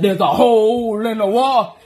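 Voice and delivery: shouted through laughter; laughing exasperated shout. Retold or imitated. Repeating the news to husband, laughing and yelling. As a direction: lose it and yell it, laughing. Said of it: "I said".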